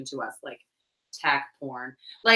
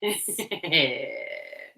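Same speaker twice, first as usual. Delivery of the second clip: laugh; 4 semitones lower, 3 dB quieter than usual. Real, not acted. Laughs at olive oil talk.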